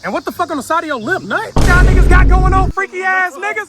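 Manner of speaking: mock yelling. Real, not acted. Yelling at friends.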